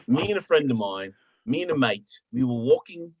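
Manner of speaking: put-on British accent for storytelling. Shown as a demonstration. Showing friends his British accent with a story, British accent. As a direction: tell it in an amateur British accent. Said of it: "I also do the British accent as well".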